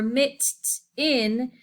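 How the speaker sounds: mit-in said slowly in two beats; wrong split. Shown as a demonstration. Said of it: "it doesn't say".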